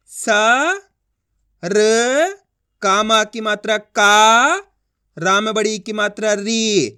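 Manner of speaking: slow spelling-out with long held sounds; letter by letter. Shown as a demonstration. Teacher showing how to pronounce each letter, slowly. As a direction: hold "सा", "र", "का", "री", pausing between. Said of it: "एक एक अक्षर का उच्चारण करके".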